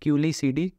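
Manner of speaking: "Culiacidae" sounded out slowly, unsure of it; careful, slow attempt at "Culiacidae"; tentative pronunciation. Real, not acted. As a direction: slowly feel your way through "Culiacidae". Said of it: "जो भी pronunciation हो इसका".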